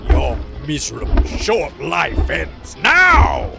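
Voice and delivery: roaring a death threat; furious shout. Acted. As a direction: bellow it in rage. Set attacks Jane.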